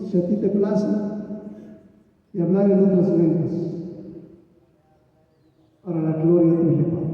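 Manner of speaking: earnest prayer, leading the room; fervent prayer. Acted. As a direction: pray aloud with conviction. Leads congregation in prayer.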